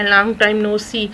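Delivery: very slow, each word laid out; slow model phrase. Shown as a demonstration. Teacher to students, modelling a phrase very slowly. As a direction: say it slowly so learners can copy. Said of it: "کسی کو driving کا کہہ رہے ہیں".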